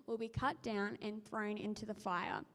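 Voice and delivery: measured, earnest reading of the Gospel; scripture reading. Acted. Reader reads Luke to the congregation, steady scripture reading. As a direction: read the passage to the congregation. Bible reading aloud in church.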